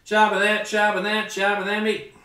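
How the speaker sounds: put-on Cajun accent. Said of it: "That's my Cajun guy voice".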